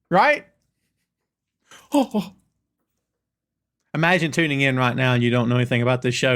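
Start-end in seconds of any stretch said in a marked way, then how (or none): 1.9-2.3 high mock-crowd "oh, oh"; imitated crowd chant. Host showing viewers how everybody goes, high imitated chant. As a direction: mimic the fans' repeated oohs. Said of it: "that's gonna get everybody going".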